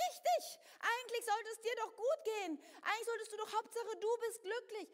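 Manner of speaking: mild mock call of the old ego; old ego coaxing. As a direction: lure her back into selfishness. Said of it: "was schreit".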